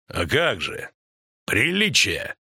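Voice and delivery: composed, unhurried reply; understated, level-headed calm; calm Турсиах. A narrator's reading. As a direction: answer the ranting calmly. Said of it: "спокойно сказал Эйс Турсиах".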